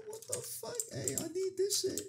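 high squeal. Real, not acted. Sudden squeal over an item.

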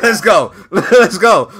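laughing through a cocky dare; laughing challenge. Real, not acted. Streamer laughing as he eggs on his friend to argue. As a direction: chuckle it out, pumped up. Laughing while daring a rival.

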